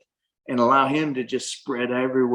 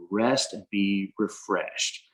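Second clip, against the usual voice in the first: softer, slow and soothing; soft reassurance; 2 semitones lower, 5 dB quieter, slower than usual. Retold or imitated. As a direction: ease them into rest, quietly. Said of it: "there was no pressure".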